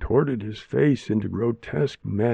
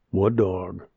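innocent; 3 semitones lower than usual. A narrator's reading. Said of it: "Maya heard Wilma ask innocently".

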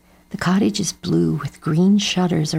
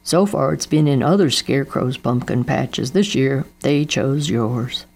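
father's voice; 3 semitones lower than usual. Acted. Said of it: "said Daddo".

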